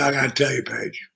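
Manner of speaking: put-on low, slow gravelly-free older wrestler voice; Michael P S Hayes. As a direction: drop low and savor each word slowly. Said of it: "He said".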